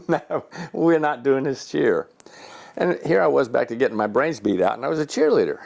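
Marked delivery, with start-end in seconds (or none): 0.1-2.1 slow, deliberate retold refusal; slow firm repeat. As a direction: spell out the no, word by word. Repeats his refusal slowly.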